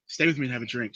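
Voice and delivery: low, softened creep voice; creepy come-on. Acted. Creepy guy asking her to stay, creepy. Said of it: "he does that creepy voice that I just did".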